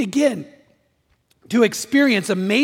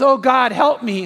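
loud, slow cry to God; drawn-out mock cry for rescue; acted desperate plea; 3 semitones higher, 5 dB louder, slower than usual. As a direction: plead loudly for help. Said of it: "so he starts screaming".

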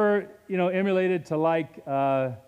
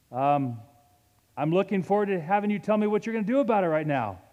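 mock admiring challenge; 3 semitones higher than usual. Shown as a demonstration. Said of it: "is to say".

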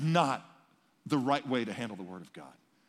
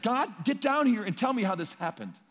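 demanding of God; 8 semitones higher, 5 dB louder than usual. Retold or imitated. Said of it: "And Job is saying".

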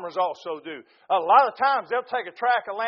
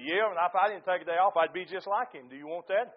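lower, softer quoted comeback; understated retort; 4 semitones lower, 6 dB quieter than usual. Retold or imitated. Preacher answering a lady's complaint about his day off, understated retort. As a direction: answer back low and quiet.

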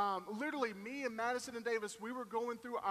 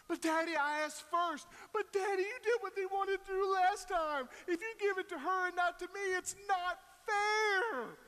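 put-on whining kids; 9 semitones higher, 4 dB louder than usual. Kids arguing to dad over last cereal, high whine. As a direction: whine like a kid cheated of cereal.

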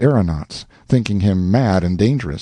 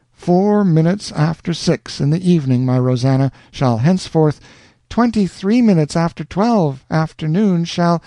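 higher, puzzled lover; Alonzo, puzzled; 7 semitones higher than usual. A narrator's reading. Alonzo noticing the time differs, puzzled. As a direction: catch the mismatch.

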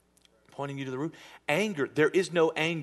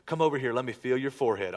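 mom voice; 2 semitones lower, faster than usual. Retold or imitated. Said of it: "Moms, what was the first thing".

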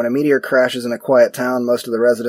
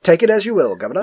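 light put-on British accent; 6 semitones higher, 3 dB louder, faster than usual. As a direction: say it like a chirpy Londoner. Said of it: "And British".

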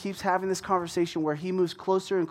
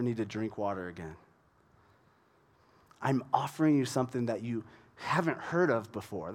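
gentle reassurance; 3 semitones lower, 3 dB quieter than usual. Retold or imitated. Jesus gently offering living water.

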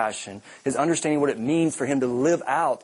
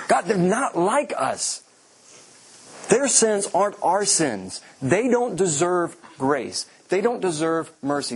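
higher, slow indignant protest to God; Jonah's complaint; 4 semitones higher than usual. Retold or imitated. Jonah protesting to God that Nineveh is unworthy, slow and indignant. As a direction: drag out each grievance like a sulking prophet.

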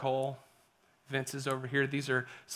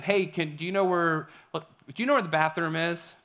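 polite tourist question; 3 semitones higher, 6 dB louder than usual. Retold or imitated. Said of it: "We start saying".

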